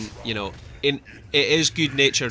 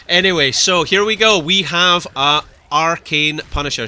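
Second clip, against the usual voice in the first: loud, higher lift into the match call; play-by-play commentary; 5 semitones higher, 9 dB louder than usual. Acted. Caster bringing viewers back to the match, play-by-play commentary. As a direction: punch it out like an esports caster.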